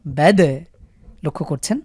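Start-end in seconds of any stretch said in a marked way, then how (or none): 0.1-0.4 বেদ with দ jolted loud; দ echoed at the end; bounced দ. Shown as a demonstration. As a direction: punch the দ. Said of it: "এখানে আমরা ধাক্কা দিয়ে পড়লাম".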